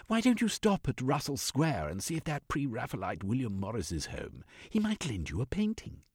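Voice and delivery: lightly voiced old woman, helpful suggestion; a touch of the white-haired elder, offering an idea; lightly voiced elderly comrade; Percivalia, eldest comrade.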